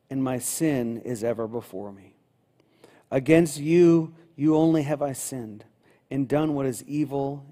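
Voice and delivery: unhurried, prayerful reading of a psalm, with long pauses; solemn Bible reading to the congregation; slow scripture reading. Shown as a demonstration. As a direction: read the confession slowly and let each line sink in. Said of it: "I'm gonna read it pretty slowly".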